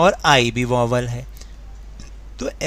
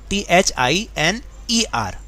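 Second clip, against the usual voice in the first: slow, careful letter-by-letter spelling; 3 semitones higher, slower than usual. Shown as a demonstration. Teacher spelling out the kids' mistake, slow and careful. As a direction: spell each letter slowly and deliberately. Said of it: "बच्चे क्या गलती करते हैं".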